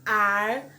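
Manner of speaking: "ar" loud and drawn, ending on a pulled R; word-final R. Shown as a demonstration. Teacher showing the end-of-word sound, loud "ar" with pulled R. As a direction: hold "ar" into a curled R. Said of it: "ele tem som de".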